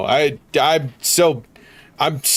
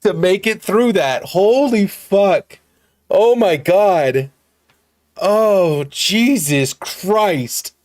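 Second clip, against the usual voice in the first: laughing disbelief; 5 semitones higher than usual. Real, not acted. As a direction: crack up in real disbelief after holding it in. Bursts out after song ends.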